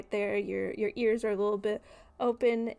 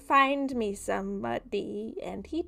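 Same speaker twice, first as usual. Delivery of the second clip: sinister dream figure; 5 dB louder than usual. Acted. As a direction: purr it like a creepy stranger.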